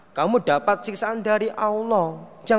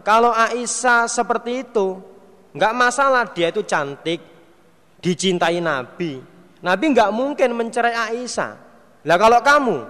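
raised, higher scolding voice; stern fatherly warning; 5 semitones higher than usual. Retold or imitated. Umar warning his daughter Hafsah, raised stern scolding.

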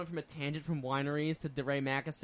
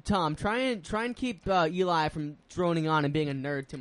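Italian voice. Retold or imitated. Quoting Joe's request about Eli, light Italian voice. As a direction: quote him with a hint of Italian. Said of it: "did the Italian voice for Joe".

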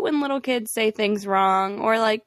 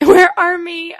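put-on cute child echo; 8 semitones higher, 10 dB louder, slower than usual. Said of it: "repeating the child's phrase".

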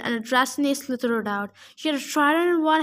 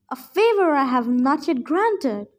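growled; 3 dB louder than usual. Acted. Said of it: "Antaeus growled".

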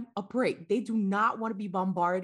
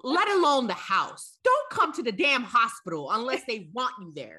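loud, pitched-up scolding; exasperated rant; 2 semitones higher, 4 dB louder than usual. Real, not acted. Mother telling visitors to stay away from the hospital, exasperated. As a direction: lay down the law, loudly.

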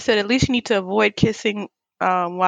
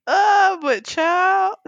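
mock Southern belle; 5 semitones higher, slower than usual. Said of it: "sound like a Southern belle".

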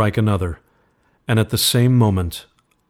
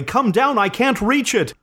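calling out. Acted. Wife calling husband from downstairs.

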